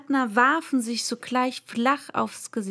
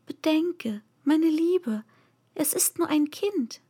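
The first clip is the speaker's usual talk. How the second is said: gentle; 5 semitones higher than usual. Acted. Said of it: "sagte milde".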